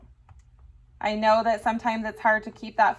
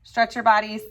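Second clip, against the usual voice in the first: energetic command; 2 semitones higher, 3 dB louder than usual. Real, not acted. Teacher calls class to exercise.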